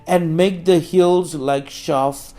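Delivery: declamatory Bible reading with punched words; scripture proclamation. Acted. Preacher reads Isaiah's promise to Israel, scripture proclamation. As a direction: proclaim the prophecy in weighted phrases.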